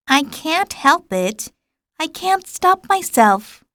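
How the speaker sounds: a touch of embarrassment; embarrassed little prince. A narrator's reading. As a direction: plead like a shy child caught yawning. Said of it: "thoroughly embarrassed".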